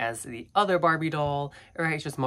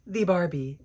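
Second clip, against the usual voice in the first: nasal voice from a cold; stuffy nose; 3 semitones higher, 3 dB louder than usual. Real, not acted. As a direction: talk through a blocked nose. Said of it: "I apologize for my nasally voice".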